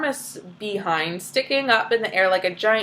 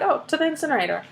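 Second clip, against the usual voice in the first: casually; 5 semitones higher, 3 dB quieter, much faster than usual. Retold or imitated. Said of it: "he's just casually like".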